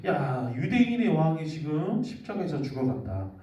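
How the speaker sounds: a storyteller playing a sneering soldier; mocking soldier. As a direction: taunt him from below the cross. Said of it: "이렇게 비웃고 있는 거예요".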